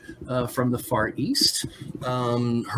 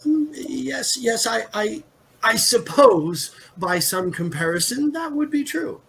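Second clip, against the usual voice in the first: troubled; 5 semitones higher than usual. Acted. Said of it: "she looks a little troubled".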